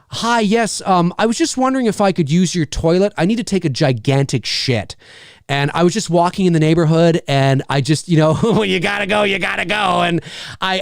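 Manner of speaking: overly polite, nervous toilet plea; sheepish polite request. Pretend. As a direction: ask sweetly, a bit too eager. Pitch to use toilet.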